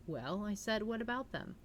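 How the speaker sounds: steady read-aloud narrator voice; calm audiobook reading; story narration. A narrator's reading. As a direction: read the novel to your listeners. Reads mystery novel aloud on stream.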